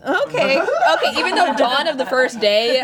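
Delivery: talking through laughter; laughing. Real, not acted. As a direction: laugh while speaking.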